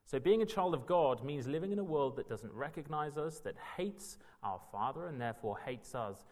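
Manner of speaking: normal talking voice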